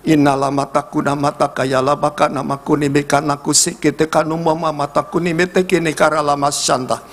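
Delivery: flow through it like fervent prayer; praying in tongues. Acted. Pastor prays in tongues over couples holding hands.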